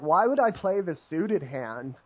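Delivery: lightly voiced bored ironic hipster; a hint of a know-it-all poker hipster. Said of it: "I love my poker hipster voice".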